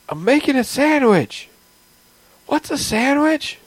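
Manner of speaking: high, slow and loud robot cat voice; too-loud robot cat. Pretend. Robot cat answering the players, high, slow and too loud. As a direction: blare it like a machine that can't find its volume. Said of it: "Why am I talking so loud".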